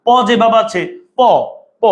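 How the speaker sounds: প said alone with a sharp stop; isolated sound. Shown as a demonstration. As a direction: hit প on its own. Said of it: "প যেভাবে আছে সেভাবে তুমি রাখলা".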